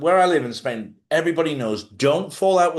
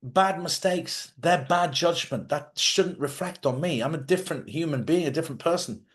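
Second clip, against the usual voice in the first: higher, deliberate mock self-talk; self-talk script; 4 semitones higher than usual. Shown as a demonstration. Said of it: "Just say".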